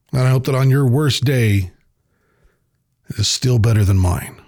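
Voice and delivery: deliberate heartfelt talk with long pauses; slow, loving talk. Real, not acted. Host telling listeners he loves them, slow and sincere. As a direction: gently lecture like a parent, taking your time. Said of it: "talk real low and I'm gonna talk real slow".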